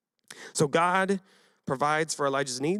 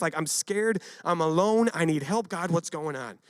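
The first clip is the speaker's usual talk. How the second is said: lament; 5 semitones higher than usual. Retold or imitated. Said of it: "He laments".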